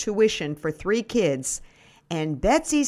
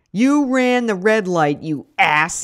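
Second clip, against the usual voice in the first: louder, snapping at the other driver; furious driver yelling out his window; angry yell; 6 dB louder than usual. Acted. An angry driver yells at her for running the red light. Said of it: "he yells".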